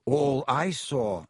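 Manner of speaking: very slow, deliberate insistence; stubborn. Acted. Boy holding to his accusation, stubborn. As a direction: dig in, stretching each word. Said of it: "said Ernie stubbornly".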